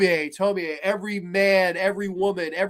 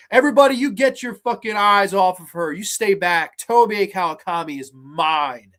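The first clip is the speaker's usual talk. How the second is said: loud, possessive warning to a crowd; laying down the law; 5 dB louder than usual. Acted. Painter warning the nightclub off Tomie, laying down the law. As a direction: lay down the law, a touch of menace. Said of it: "he kind of lays down the law".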